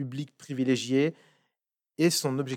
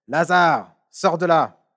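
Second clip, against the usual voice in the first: calling out loudly and higher into the tomb; loud cry; 4 semitones higher, 11 dB louder, slower than usual. A narrator's reading. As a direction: cry out the command with full force. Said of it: "il cria d'une voix forte". (crier fort, d'une voix puissante)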